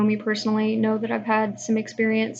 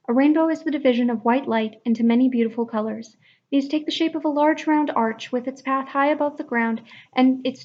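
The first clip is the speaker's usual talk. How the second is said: natural voice; 2 semitones higher than usual. Shown as a demonstration. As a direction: read it at your own natural pitch without pushing down. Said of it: "this reading I'm going to be doing in my natural voice".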